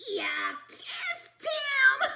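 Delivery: high, loud laughing exclaim. Acted. Siblings laughing after the kiss, high and loud. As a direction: crack up at it. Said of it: "They laughed".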